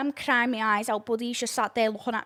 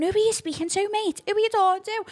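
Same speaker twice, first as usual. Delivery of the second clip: imitating George's angry comeback; confrontational; 10 semitones higher than usual. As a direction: square up to him on the phone. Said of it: "So George going".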